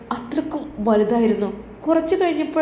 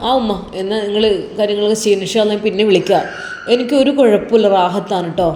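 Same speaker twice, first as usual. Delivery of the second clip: louder, fast reassurance to mother; reassuring son; 6 dB louder than usual. Acted. Son reassures worried mother on phone, loud and fast. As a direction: rush to reassure her, voice raised.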